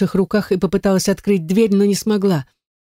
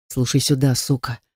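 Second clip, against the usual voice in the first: low, soft and cold, through the teeth; menacing quiet threat from a hard man; bitten-off icy warning; cold low hiss; 3 semitones lower, 4 dB quieter than usual. A narrator's reading. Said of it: "холодно процедил он".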